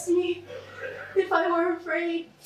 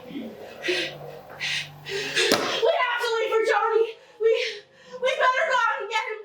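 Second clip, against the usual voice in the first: desperate pleading; 3 semitones higher than usual. Retold or imitated. Begging to go rescue brother.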